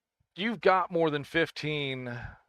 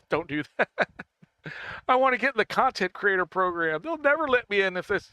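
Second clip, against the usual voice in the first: amused, higher-pitched protest through laughter; laughing; 6 semitones higher than usual. Real, not acted. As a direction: protest while cracking up. Laughing while joking with chat.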